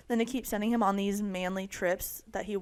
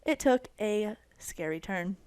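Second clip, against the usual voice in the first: news reporter. Acted. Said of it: "I sound like a news reporter".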